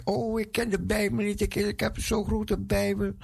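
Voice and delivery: high, doubting little voice; mock unsure believer. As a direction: act out the timid excuse. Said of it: "Want je denkt".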